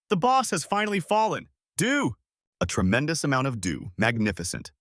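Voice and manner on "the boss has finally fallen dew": high, excited shout; howling cheer. A narrator's reading. Soldiers celebrating their fallen boss, howling. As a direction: cry it out high over the crowd. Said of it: "the soldiers were still howling loudly".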